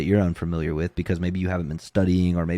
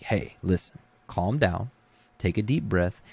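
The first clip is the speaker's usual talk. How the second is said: softer, steady soothing coach; calm reassurance; 4 dB quieter than usual. Retold or imitated. Coach to his athlete mid-match, soft calm reassurance. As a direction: settle the kid down gently.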